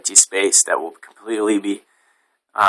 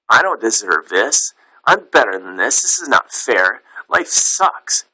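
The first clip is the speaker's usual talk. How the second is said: upset inner voice; 3 semitones higher than usual. Retold or imitated.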